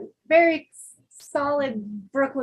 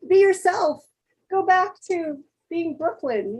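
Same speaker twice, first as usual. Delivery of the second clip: exasperated, higher-pitched mock scolding; retold upset plea; 4 semitones higher, 4 dB louder than usual. Friend telling Brooklyn pal to drop Southern act, upset. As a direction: insist in a raised voice, retelling your annoyance. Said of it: "it would make me upset".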